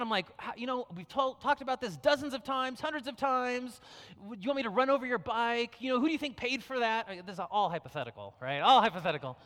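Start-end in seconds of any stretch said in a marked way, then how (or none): 0.4-7.1 mildly exasperated parent, pitched up; acted angry scolding. Dad scolding his kid over the bike, mildly angry. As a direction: tell off a child in a mock rant. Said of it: "and I let him have it".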